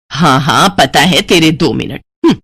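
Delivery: low, disbelieving grumble; cross mother. Acted. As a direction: dismiss your daughter's promise with a huff. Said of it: "इतना कहकर हिना की माँ सुमित्रा गुस्से में". (चिढ़ी हुई माँ)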